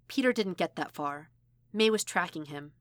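ordinary delivery, nothing marked

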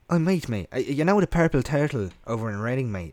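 chummy mock Irish accent; imitated Irish accent. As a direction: imitate an Irishman hailing a mate. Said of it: "Irish guy in front of him".

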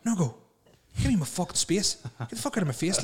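grumpy man telling a colleague to back off; grumpy morning snap. Retold or imitated. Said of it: "and I'd turn and go".

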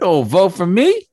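lightly imitating Biden; Biden impression. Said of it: "just like Joe Biden".

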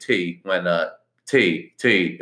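tea said with a lisp around the retainer; wearing a retainer. Shown as a demonstration. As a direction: say tea through a mouth guard. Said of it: "a little speech difference".

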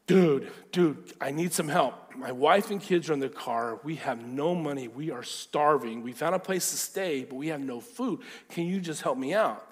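lightly acted desperate plea for help; man urgently asking a favor; pleading stranger. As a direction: beg for help, stressing each need.

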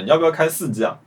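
usual speaking voice

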